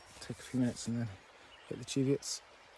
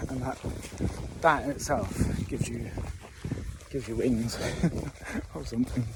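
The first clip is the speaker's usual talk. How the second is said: after crying. Real, not acted. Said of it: "sorry for being all teary".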